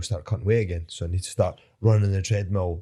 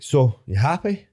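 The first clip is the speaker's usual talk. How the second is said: slow higher boss question; a slow raised question; boss asking; 6 semitones higher, 3 dB louder, slower than usual. Retold or imitated. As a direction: quote the boss slowly. Dana asks him.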